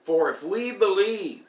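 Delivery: loud, lifted pulpit reading; scripture reading. Acted. Preacher reading Paul on hope for the bereaved, emphatic scripture recital. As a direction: proclaim each phrase of scripture loudly. Resumes reading Paul's letter.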